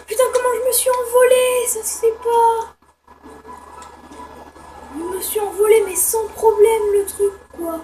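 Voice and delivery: real giddy laughter in the voice; giddy laughing. Real, not acted. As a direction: still laughing while talking. Laughing at flying away.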